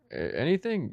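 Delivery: mock amazement, voice swooping up; amazed buddy. Friend amazed by the tube taco fillings, mock disbelief.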